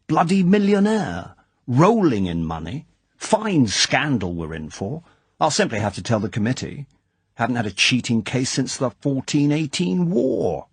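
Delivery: indignant lord, pitch leaping up on Bloody millionaire; lightly voiced aristocrat in a huff; outraged club chairman. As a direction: sputter it out like a scandalised old clubman. Basildon outraged at cheating member.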